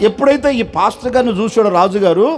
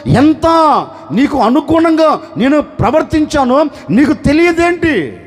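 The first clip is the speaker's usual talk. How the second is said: pleading prayer; 2 semitones higher than usual. Acted. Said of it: "ఎలుగెత్తి ఏడుస్తున్నాడు".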